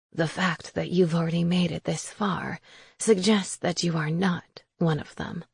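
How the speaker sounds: soft crone voice; old witch voice. Acted. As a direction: speak like a quiet old hag. Witch Raisa speaks.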